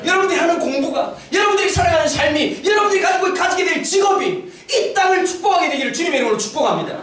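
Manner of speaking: preacher's blessing. Real, not acted. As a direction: proclaim a blessing over the congregation. Pronounces a blessing on congregation.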